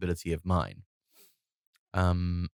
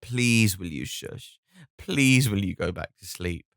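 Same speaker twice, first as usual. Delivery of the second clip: pleading frustration. Retold or imitated. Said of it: "panicked, pleading, desperate frustration".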